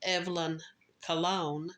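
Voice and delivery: "Colon" said kuh-LOHN, stressed second syllable; alternate surname pronunciation. Shown as a demonstration. Host quoting other podcasts, "Colon" demonstrated as kuh-LOHN. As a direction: put the weight on the end of "Colon". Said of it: "I've heard her name pronounced".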